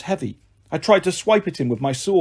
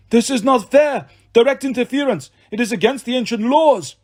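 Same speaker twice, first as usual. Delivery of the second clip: monster wailing; 7 semitones higher than usual. A narrator's reading. Manticore wailing to the hunters that it is unfair. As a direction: whine it out like a cheated beast. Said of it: "The monster wailed".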